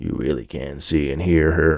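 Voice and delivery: low, gravelly, disguised put-on voice. Narrator reading an officer questioning a boy, in a low, gravelly disguised voice. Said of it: "He spoke in a low, gravelly tone, trying to disguise his voice".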